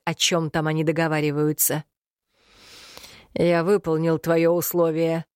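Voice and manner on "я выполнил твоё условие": creaky voice. Acted. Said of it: "заскрипел многострадальный Дилан".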